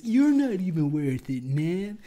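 mock whiny retort. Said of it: "And he's".

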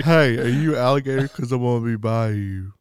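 mock pickup line. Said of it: "Every time anyone picked it".

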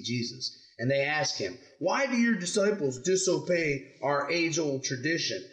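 measured scripture read-aloud; story reading to children. Acted. Parent reading the Pharisees' question to kids, measured storytelling. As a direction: read it out clearly, phrase by phrase.

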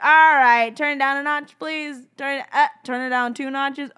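God, overwhelmed listener. Acted. God with amplified ears hearing yelled prayer, comic protest. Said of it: "he'd be like".

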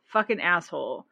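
imitating telling the husband off, half-joking; mock angry retort. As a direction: snap at him in mock outrage. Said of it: "And I'm like".

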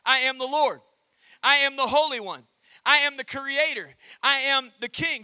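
loud, proclaiming each "I am"; booming declaration. Acted. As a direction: declare God's titles with full force. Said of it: "follows that up with four other titles".

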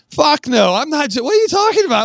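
high panicked refusal; mock panic. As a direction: act out the freak-out at the towers. Sees jump towers, panics.

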